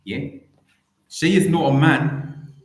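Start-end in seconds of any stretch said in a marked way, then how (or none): 1.1-2.5 emphatic. Acted. Mock tribute, heavy emphasis.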